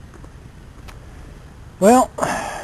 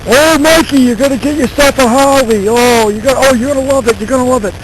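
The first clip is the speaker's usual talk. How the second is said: high, loud burly Boston neighbor; hammed-up thick Boston accent, higher; 10 semitones higher, 4 dB louder than usual. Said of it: "got that big old Boston accent".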